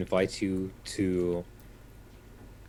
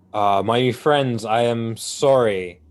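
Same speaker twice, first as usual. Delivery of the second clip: addressing the crowd; 4 dB louder than usual. Acted. Envoy apologizing to the band about the single pouch, raised voice. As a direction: speak up to the group, a little sheepish.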